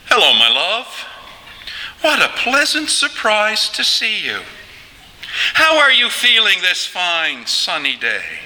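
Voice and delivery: high, genteel mock-British chitchat; British accent. Shown as a demonstration. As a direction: play two polite Brits making small talk. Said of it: "The same conversation between two Brits".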